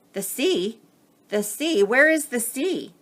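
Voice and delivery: scrambling small creatures asking; puzzled tiny crabs. Acted. Crabs ask Bowie where the sea is, excited high voices.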